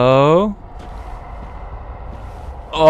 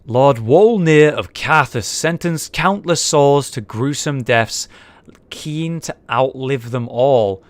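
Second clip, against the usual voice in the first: reading aloud; 3 dB quieter, slower than usual. Acted. Reads item description aloud.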